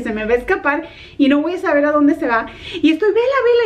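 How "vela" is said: calling out. Retold or imitated. Calling dog by the fence.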